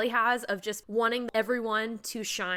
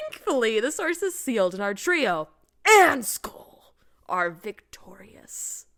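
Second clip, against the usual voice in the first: dramatic trailer voiceover; 2 semitones lower, slower than usual. Shown as a demonstration. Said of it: "I like the voiceover".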